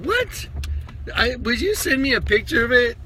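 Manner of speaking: high-pitched retold astonishment; astonished. Asking a buddy for a picture of the spear tip, astonished. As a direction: squeak out your amazement, then ask.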